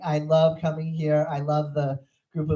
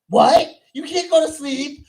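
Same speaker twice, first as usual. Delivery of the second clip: high, incredulous son voice; mock panic, pitched way up; panicked son; 11 semitones higher, 6 dB louder than usual. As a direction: imitate a son squawking in alarm. Son panics at mother's bedtime.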